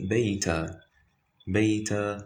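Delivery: "baita" ending on an open long a; stopping with fatha. Shown as a demonstration. Teacher showing the tanween fatha stop, open ending. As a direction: drop the n and hold the end of "baita". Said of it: "like this".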